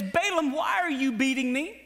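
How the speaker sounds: high, put-upon donkey complaint; the donkey pleading with Balaam on the road. Acted. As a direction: play the hurt donkey asking why.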